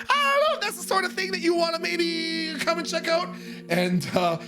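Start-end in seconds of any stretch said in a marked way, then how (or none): 0.1-3.3 1 polite caller. Retold or imitated. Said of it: "I'm like".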